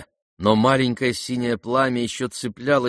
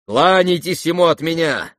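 bitter farewell; 6 semitones higher, 6 dB louder than usual. Acted.

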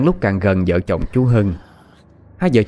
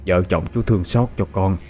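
grave prayer; 2 semitones lower than usual. Acted. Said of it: "Chú Tư thắp nhang rồi khấn".

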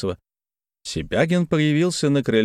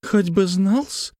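slow, high, sour retort; slow vexed high retort; with annoyance; 10 semitones higher, much slower than usual. Acted. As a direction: drag it out in irritation. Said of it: "промолвил с досадой".

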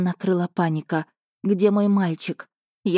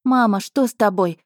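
put-on higher, louder, panicked little boy; panicked child's cry; 3 semitones higher, 3 dB louder than usual. Boy holding his fainting mother, panicked cry. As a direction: shout it in panic, near tears. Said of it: "кричал ребёнок".

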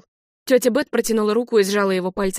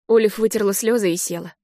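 ordinary delivery, nothing marked

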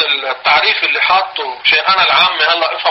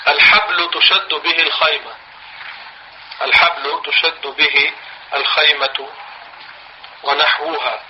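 slow, word by word for writing down; teacher dictating slowly to the class; slow dictation; slower than usual. Shown as a demonstration. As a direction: dictate slowly so students can write. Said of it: "اكتبوها".

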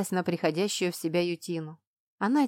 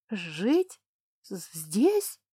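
frightened squeak; much slower than usual. A narrator's reading. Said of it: "пискнула она".

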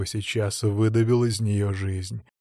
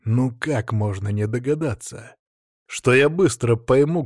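plain reading voice

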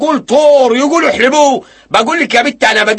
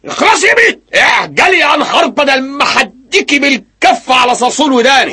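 angry shout; 5 semitones higher than usual. Acted. Husband scolding his wife.

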